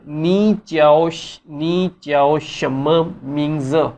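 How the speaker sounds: slow Chinese reading of नी च्याओ शम्मा मिंग्स; नी च्याओ शम्मा मिंग्स, careful Chinese; Chinese sentence. Shown as a demonstration. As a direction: read the sentence slowly word by word. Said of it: "इसका पूरा एक sentence बनाते हैं".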